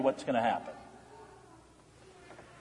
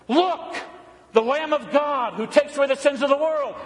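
proclaiming shout; 7 semitones higher than usual. Retold or imitated. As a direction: cry it out to the crowd. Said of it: "What's John say?".

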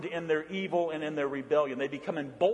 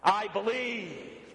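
slow call for the congregation to join; proclaimed creed; 6 semitones higher, much slower than usual. Shown as a demonstration. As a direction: stretch it out as a firm declaration. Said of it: "we shout".

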